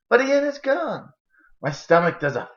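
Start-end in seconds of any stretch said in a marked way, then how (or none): 0.1-1.1 shocked realization. A narrator's reading. Narrator discovers brother missing.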